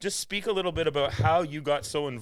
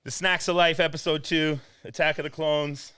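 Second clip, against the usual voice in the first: louder, punchy show opener; loud announcer intro; 3 semitones higher, 4 dB louder than usual. Acted. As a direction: announce it like a host. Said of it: "loud restart of intro".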